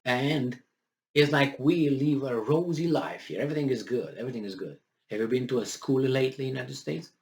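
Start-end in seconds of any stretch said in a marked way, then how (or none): 1.1-4.8 mock-cheerful, starting high and loud, then easing off; put-on rosy optimism; sarcastic. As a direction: sarcastically play up how wonderful things are. Mocks claim that life is rosy.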